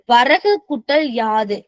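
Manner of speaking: very slow, word by word; slow dictation. Shown as a demonstration. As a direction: read it out slowly like dictation. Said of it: "இதுக்கு examples பாருங்க". (மெதுவாக வார்த்தை வார்த்தையாக)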